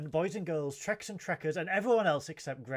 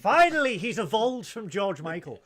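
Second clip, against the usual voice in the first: mock exclamation; 5 semitones higher, 7 dB louder than usual. Quoting his own thought, joking.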